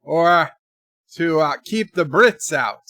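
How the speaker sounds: lively mock Irish hologram servant; amateur stage-Irish accent. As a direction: put on a hammy Irish brogue. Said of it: "my emergency Irish hologram".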